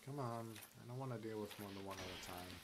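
talking while chewing gum. Real, not acted. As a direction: gum in the mouth. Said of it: "Excuse my gum chewing".

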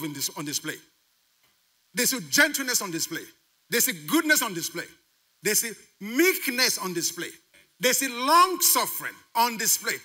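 emphatic preacher's cadence, swelling at the end; building preaching. Real, not acted. Preacher asking congregation what world would look like, building preaching. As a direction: drive each phrase home to the congregation.

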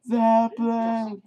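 high stretched-out silly yell; goofy war cry. Pretend. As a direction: drag the word out like a chant. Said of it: "Eric, you gotta shut up".

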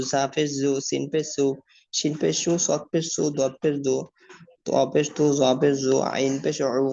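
rhythmic, even-toned letter-by-letter spelling drill; recitation drill. Shown as a demonstration. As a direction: chant out the letters evenly for learners to follow.

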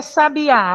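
"sabiá" slow, final á held long; last syllable strongest. Shown as a demonstration. Teacher explains oxítona to class, drawn-out final á in "sabiá". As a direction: stretch out the á ending "sabiá". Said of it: "a última sílaba que é a mais forte".

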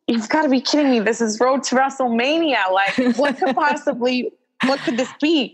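can't believe what she's hearing; disbelieving. Retold or imitated. Retold disbelief about the big news.

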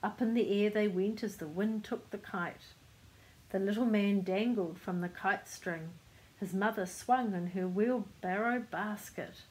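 measured picture-book reading; story narration. A narrator's reading. Reader telling children of the kite flight, story narration. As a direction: read the tale aloud to children.

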